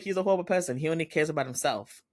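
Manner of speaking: high-pitched retold complaint; mock disdain. Friend condemning him in the recap, mock disdain. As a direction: quote her in a high, amused voice. Retold insult after laughing.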